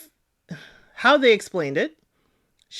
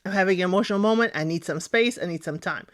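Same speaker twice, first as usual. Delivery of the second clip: quick example line; faster than usual. Shown as a demonstration. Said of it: "That's all it took".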